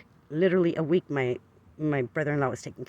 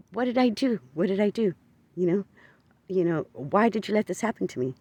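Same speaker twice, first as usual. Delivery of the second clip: crying plea to God; 4 semitones higher than usual. Retold or imitated. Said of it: "I was blubbering, crying".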